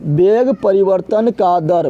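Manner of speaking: each word spelled out slowly for notes; slow it right down so students can write; slow, deliberate classroom repetition; slow dictation. Shown as a demonstration. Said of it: "क्या बोलते हैं?".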